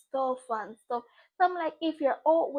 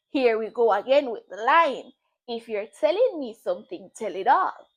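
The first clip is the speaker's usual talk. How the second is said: exasperated; 3 semitones lower, 8 dB louder than usual. Retold or imitated. Fed-up retort in retold argument.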